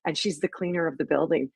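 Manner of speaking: ordinary talk, nothing marked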